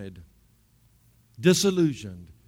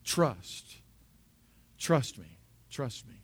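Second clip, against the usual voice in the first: soft, low, spaced-out words; hushed inner voice, falling away gently; God; 6 semitones lower, 11 dB quieter, much slower than usual. Retold or imitated. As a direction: say it quietly, letting each one settle. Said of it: "when I hear his voice clearly".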